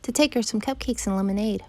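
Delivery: lightly voiced little girl. Girl tells the wolf her errand, lightly childlike. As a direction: lift the pitch into a child's voice.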